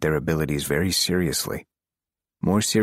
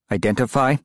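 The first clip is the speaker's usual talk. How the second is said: slight edge; 7 semitones higher, 3 dB louder than usual. Acted. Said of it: "with a slight edge to it now".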